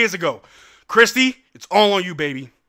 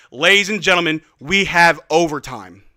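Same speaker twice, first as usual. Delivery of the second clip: announcer proclamation; 5 semitones lower than usual. Real, not acted. First take, announced at buzzer.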